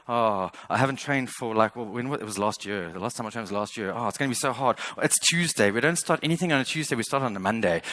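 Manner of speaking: a hint of a whiny excuse-maker; lightly voiced lazy inner voice, talking yourself out of it; mild mock whine of excuses; the handbrake. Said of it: "what the handbrake sounds like".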